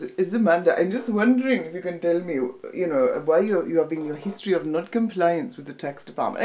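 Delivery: put-on lightly done Indian accent, tax officer asking; a hint of an Indian official's accent. Tax officer questioning Amanda in a light Indian accent. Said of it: "he was Indian".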